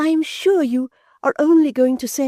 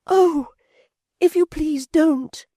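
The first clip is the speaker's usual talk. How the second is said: much higher, slow alarmed plea; alarmed Florence; 4 dB louder, slower than usual. A narrator's reading. Florence alarmed, begging Toots to stop, high voice. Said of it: "cries Florence".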